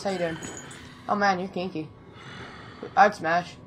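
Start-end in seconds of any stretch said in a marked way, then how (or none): 0.0-1.9 teasing murmur. Real, not acted. Teasing the enemy, much softer.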